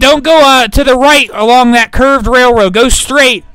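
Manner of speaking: loud calling orders; calling from far away. Real, not acted. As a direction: call across the battlefield. Directing troops across field.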